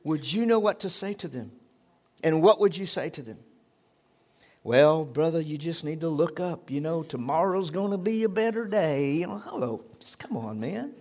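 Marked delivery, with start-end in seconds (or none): 4.6-9.1 lightly put-on pep talk to a brother; mock the well-meaning comforter; mock consoling. Voices an empty consoling reply.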